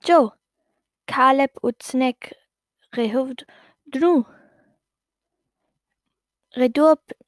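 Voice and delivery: slow reversed gibberish, syllable by syllable; long backwards-talk answer; backwards speech. Acted. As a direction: goblin girl explaining in backwards talk. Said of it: "der Kobold sagte".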